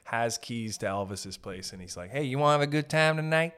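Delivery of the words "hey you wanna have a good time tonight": lightly voiced Memphis tout; a hint of a local guy selling a night out; Memphis hustler. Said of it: "I imagine there's a guy in Memphis".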